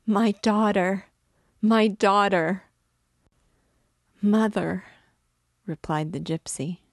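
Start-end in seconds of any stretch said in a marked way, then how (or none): 0.1-2.6 high, loud cries of joy; mother's raised, overjoyed cry; rapturous exclaiming. A narrator's reading. 4.2-4.8 high, loud call to a mother; raised-voice cry of recognition; emotional cry. A narrator's reading. Daughter answers mother at reunion.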